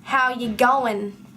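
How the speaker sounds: "how you going" run together as "how ya going", slow; casual greeting. Shown as a demonstration. A vlogger demoing the local greeting, casually slurred. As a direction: clip it to "how ya going" like a quick hello. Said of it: "I don't tend to say".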